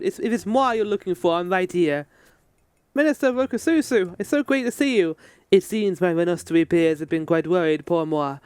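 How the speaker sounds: light mock French accent on the NPC. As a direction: play the fussy minister with a hint of French accent. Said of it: "why it's a French accent".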